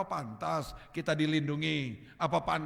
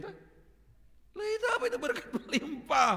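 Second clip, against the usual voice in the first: laughing. Real, not acted. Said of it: "laughing high question".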